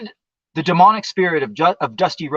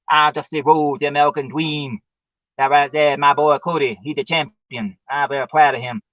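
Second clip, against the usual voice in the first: Dusty Rhodes impression. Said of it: "doing a Dusty Rhodes impression".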